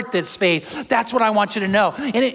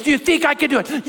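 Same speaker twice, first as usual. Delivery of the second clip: showman's call; 6 semitones higher, faster than usual. Retold or imitated. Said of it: "he goes".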